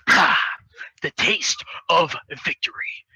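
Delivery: slow, hushed mock savoring. Hero relishing the broken door, hushed savoring voice. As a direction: breathe it out slowly, relishing each word.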